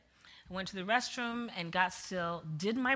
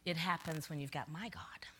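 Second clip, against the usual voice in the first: soft, breathless whisper; 4 semitones lower, 9 dB quieter than usual. Retold or imitated. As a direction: whisper it like a secret to the officer. Confiding reply to the officer.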